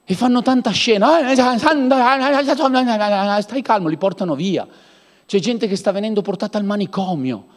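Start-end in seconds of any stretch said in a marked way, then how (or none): 1.2-3.9 mock soothing handlers. Mocking people calming a frenzied believer.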